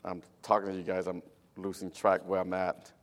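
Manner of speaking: Cambodian-accented English. Real, not acted. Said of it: "you can say Cambodian English".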